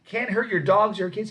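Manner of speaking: loud, high sales patter; booming huckster promise; salesman pitch. Retold or imitated. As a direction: reassure the crowd like a showman. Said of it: "He goes".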